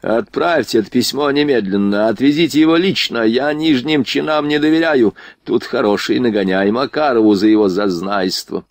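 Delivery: lightly voiced haughty prince giving orders; imperious prince, peevish. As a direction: order a subordinate about with mild pique. Drunk prince gives orders.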